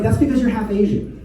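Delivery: laughing. Real, not acted. Punchline with laugh.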